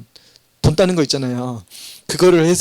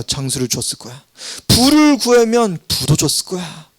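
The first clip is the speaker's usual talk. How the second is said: higher, emphatic voice of God speaking to Solomon; 4 semitones higher than usual. Acted. God answering Solomon's request, higher emphatic voice. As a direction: answer Solomon with surprised approval.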